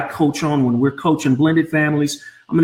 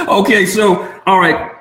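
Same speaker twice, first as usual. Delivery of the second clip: laughing; 5 semitones higher than usual. Real, not acted. Laughing at son's request.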